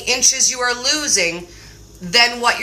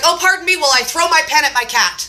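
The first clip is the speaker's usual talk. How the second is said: quick, higher sarcastic apology; mock politeness; 4 semitones higher, faster than usual. Owner to cat on the sink, mock polite. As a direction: excuse yourself with playful sarcasm.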